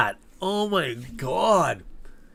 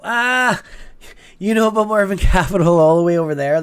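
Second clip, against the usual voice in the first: excited surprise; 4 semitones higher, 6 dB louder than usual. Real, not acted. Surprised a viewer knows the company.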